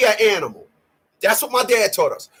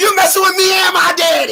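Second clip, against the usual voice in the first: put-on high-pitched, childlike little-kid voice; 8 semitones higher, 4 dB louder than usual. Showing how the line must be said: like a little kid. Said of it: "you gotta do the little kid head".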